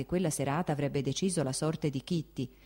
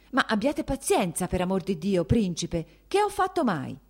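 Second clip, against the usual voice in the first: higher pleading voice, close to tears; almost crying; 4 semitones higher, 5 dB louder than usual. Acted. The princess pleading with her husband, tearful. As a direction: beg him to stop, on the edge of tears. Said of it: "diceva la principessa quasi piangendo".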